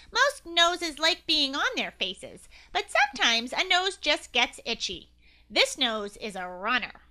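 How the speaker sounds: loud nasally agent voice. Acted. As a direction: push it all through the nose, official. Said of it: "said in a nasally voice".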